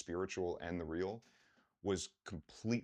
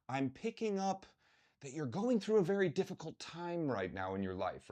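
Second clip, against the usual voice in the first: mock psychic; 9 semitones higher than usual. Mock psychic reading a stranger.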